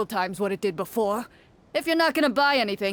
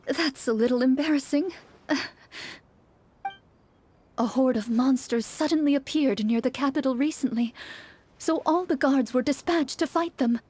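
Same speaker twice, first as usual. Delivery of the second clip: put-on sad young wife; 2 semitones higher than usual. Woman speaks to traveler.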